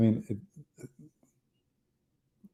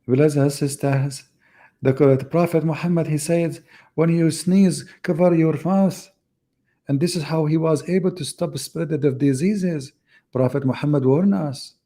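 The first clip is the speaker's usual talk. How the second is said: higher, louder mock preacher voice addressing the faithful; Sabil Ahmed preaching; 5 semitones higher, 4 dB louder than usual. Mocking a preacher telling the audience about the Prophet, in a loud, high sermon voice. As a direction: ham up a pompous sermon to brothers and sisters, pitched up. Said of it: "Do you remember the guy ... Sabil Ahmed?".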